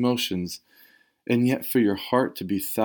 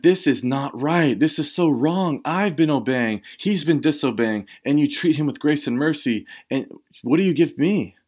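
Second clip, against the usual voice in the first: offended complaint; 3 semitones higher than usual. Retold or imitated. Older brother protesting to his father, mildly offended. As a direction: act out the brother's sulking grievance. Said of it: "He's so offended".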